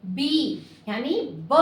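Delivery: बी यानी ब drawn out slowly, sound by sound; teacher stretching बी into its sounds; slow sound demo. Shown as a demonstration. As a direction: split बी into ब and ई, slowly. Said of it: "इसमें हमें दो sound आ रहे हैं".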